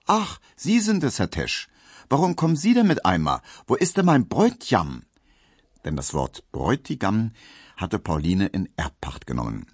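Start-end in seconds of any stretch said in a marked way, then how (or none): 0.0-5.0 put-on much higher, eager girlish calling out; excited call. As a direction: burst out, expecting her fiancé at the door. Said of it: "und rief".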